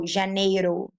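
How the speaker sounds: Janeiro with a tapped R; Spanish-like R. Shown as a demonstration. Teacher showing one middle R, Janeiro tapped like Spanish. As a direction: tap the single R in Janeiro. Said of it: "It's like Spanish".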